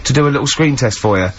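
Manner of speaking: outraged star demanding respect; entitled celebrity. Pretend. Ricky mock diva rant at Carl.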